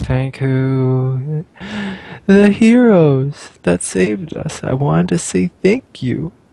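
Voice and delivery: put-on sobbing, wailing high child's voice, drawn out.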